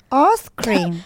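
posh English "Arse cream"; posh English accent. Shown as a demonstration. Co-host confirming the hack works, posh English accent. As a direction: try the phrase in posh English. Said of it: "in a posh English accent".

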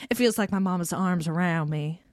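imitated Southern heroine's accent; Southern accent impression. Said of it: "I was taken out by the accent".

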